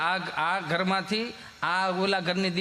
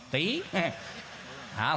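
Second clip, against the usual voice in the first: normal talking voice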